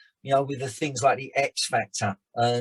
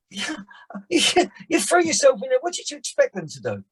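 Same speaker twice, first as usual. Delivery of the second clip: mocking laugh; 9 semitones higher than usual. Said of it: "And I thought".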